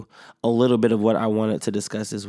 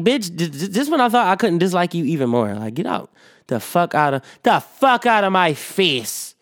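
raised, heated retold cursing, slowing at the end; mock angry tell-off; 7 semitones higher than usual. Podcaster replaying how she cursed her out, mock angry. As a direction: spit it out like you're telling her off.

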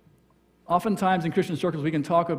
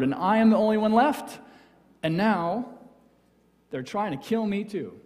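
Elijah's complaint; 3 semitones higher, 5 dB louder than usual. Acted.

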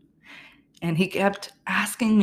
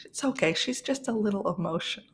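higher, whispered nurse reassurance; soothing nurse; 4 semitones higher than usual. Retold or imitated. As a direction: hush her like a calming nurse. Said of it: "she's like".

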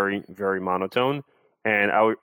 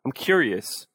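curious; 4 semitones higher, slower than usual. Shown as a demonstration. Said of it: "just forces you to sound curious".

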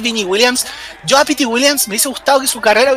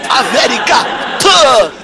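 slow, loud shouted villain promo; Iron Sheik shout; 2 semitones higher, 4 dB louder, slower than usual. Retold or imitated. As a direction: bellow it like a wrestling heel. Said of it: "del Iron Chick cuando decía".

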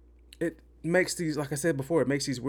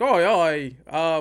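exaggerated cartoony Italian accent, loud groan of oh; mock Italian accent; 3 semitones higher, 6 dB louder than usual. Reviewer mocking Jared Leto's accent in the movie, hammed-up Italian. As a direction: ham up a Super Mario Italian accent. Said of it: "going like".

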